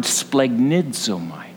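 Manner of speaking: "splagnidzomai" said carefully as splag-nid-ZO-mai; "splagnidzomai" with a falling stress at the end; Greek word. Shown as a demonstration. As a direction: sound out "splagnidzomai" syllable by syllable. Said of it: "It's the Greek word".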